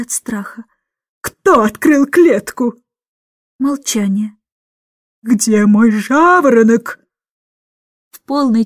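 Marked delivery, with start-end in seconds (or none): 1.2-2.7 slow, emphatic roar; angry demand. A narrator's reading. Miss Andrew to frightened children, angry demand. 5.2-7.0 slow, emphatic roar; angry demand. A narrator's reading. Miss Andrew to frightened children, angry demand.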